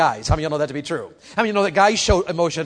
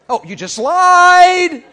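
higher, louder, very slow accusation; accusing girlfriend; 12 semitones higher, 11 dB louder, much slower than usual. Retold or imitated. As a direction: catch him in the lie, drawn out. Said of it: "Guy, what's wrong with you?".

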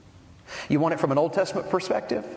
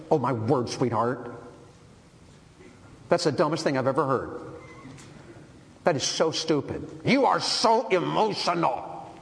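a hint of a scornful husband putting down his wife; mock harsh husband; 2 semitones higher than usual. Husband belittling his wife, a touch of contempt. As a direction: sneer it like a dismissive husband. Husband mocking wife's speech.

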